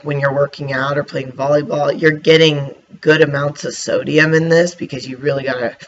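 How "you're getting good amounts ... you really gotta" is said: talking through hiccups; hiccuping mid-sentence. Real, not acted. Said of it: "excuse me, I'm hiccuping again".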